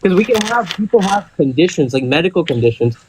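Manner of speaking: muffled, phone moving around. Real, not acted. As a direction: talk with the phone rubbing on something. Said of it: "It sounds like you're muffled".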